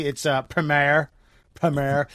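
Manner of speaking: "Premier" said slowly as preh-MAIR; mock correction. Host mimicking the viewer correcting Americans, "Premier" as preh-MAIR. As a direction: pedantically offer "Premier" with an AIR ending. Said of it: "He's been correcting".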